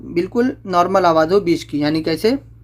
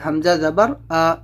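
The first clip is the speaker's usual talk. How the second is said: slow spelling drill; slower than usual. Shown as a demonstration. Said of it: "زبر کی آواز اوپر کو اٹھتی ہے".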